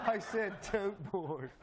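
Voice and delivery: tote said slowly, correcting toke; stress on tote. Shown as a demonstration. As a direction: slowly insist the word is tote. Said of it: "Did you say toke board?".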